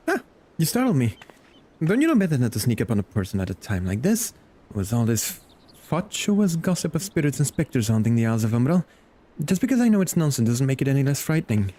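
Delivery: startled start, then mildly indignant scolding; high little jolt settling into fussy complaint; lightly startled scholar. Acted. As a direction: play a scholar caught a little off guard. Voices startled game character.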